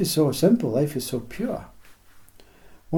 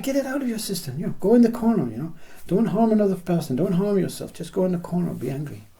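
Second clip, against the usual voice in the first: higher, soothing, kindly urging; gentle helper voice; 3 semitones higher than usual. Retold or imitated. Kind bystanders telling the angry person to vent, higher and soothing. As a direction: sound like a caring stranger shooing you to the corner.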